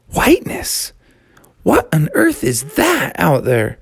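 lightly voiced baffled young frog; puzzled Froggy. Froggy asks himself about the whiteness outside, mildly baffled. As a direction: wonder aloud in surprise. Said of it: "Froggy said to himself".

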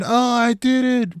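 high, slow triumphant cheer; proud flexing cheer. Retold or imitated. Masseuse flexing after finishing the buddy, proud cheer. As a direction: crow it out like a champ. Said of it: "like, flexing".

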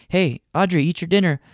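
a firm parental nudge; dad to daughter. Retold or imitated. Dad telling daughter Audrey to eat dinner, firm.

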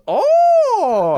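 long, high, loud "oh"; imitated game sound bite. Friend imitating a game seller's catchphrase, high drawn-out cry. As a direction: mimic a character's drawn-out high oh. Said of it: "I think he goes".

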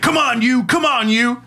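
high mock yell at the dog. Imitating the cop yelling to his dog. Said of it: "he's yelling, like".

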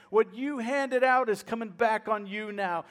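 retold angry jeering; mock yelling. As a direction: throw it as an accusation, half-yelled. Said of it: "He started yelling and screaming".

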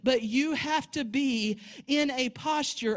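strong pulpit delivery; preaching. Acted. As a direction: preach it with weight. Preaching at full force.

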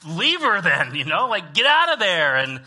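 hammed-up indignant yell at the pastor; exasperated outburst. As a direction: shout your disbelief at the pastor. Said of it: "wouldn't you be like".

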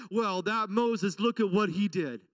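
whiny grumbling crowd, lightly voiced; lightly hammed complaining voices; mock complaining Israelites. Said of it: "they start complaining".

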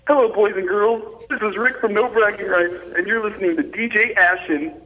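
sing-song Captain Kangaroo style intro; kids' show host. Shown as a demonstration. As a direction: greet the boys and girls like a kiddie show. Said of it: "next on Captain Kangaroo".

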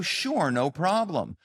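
lightly acted obliging helper; eager compliance. Analyst agreeing to help the supposed executive, readily obliging. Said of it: "And so you're gonna go".

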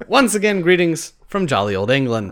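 a half-hearted, hammed-up British accent; a barely-there mock British accent; terrible British accent. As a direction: fake a jolly old English greeting badly. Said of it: "another terrible British accent".

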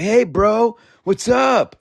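high-pitched, easygoing bro voice; laid-back bro greeting. Retold or imitated. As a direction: greet them like an old buddy. Retold casual greeting by Tomas.

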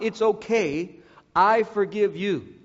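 It's okay said lightly, skating past the hurt; the wrong way, brushing off the apology; dismissive brush-off. Shown as a demonstration. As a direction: wave it away as if it were nothing.

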